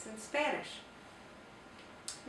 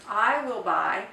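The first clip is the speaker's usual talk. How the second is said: teacher stressing I WILL BUY, louder and slow; slow, stressed example; 8 dB louder, slower than usual. Shown as a demonstration. Teacher models the English sentence for students, slow and louder. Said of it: "So it's".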